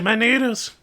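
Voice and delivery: put-on high, loud child's wail; high-pitched childish protest; protesting kid. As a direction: wail like a kid losing dinner. Kid dragged away from food.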